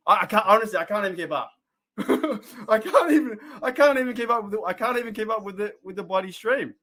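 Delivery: giggling that he can't keep up; laughing, overwhelmed. Real, not acted. Overwhelmed by flood of chat.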